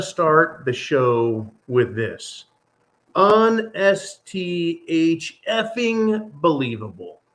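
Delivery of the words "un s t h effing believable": slow, drawn-out mock-censored disbelief; spelled-out disbelief. Real, not acted.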